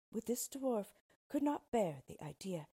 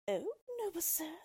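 much higher pleading cry; great distress; 11 semitones higher than usual. Acted. Queen begging dwarf to take her daughter, distressed. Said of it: "said the queen in great distress".

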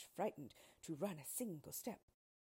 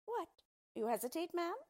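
high, loud dwarf exclamation; affronted dwarf, pitched up; indignant cry; 12 semitones higher, 8 dB louder than usual. A narrator's reading. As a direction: demand it in loud disbelief. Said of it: "cried the dwarf".

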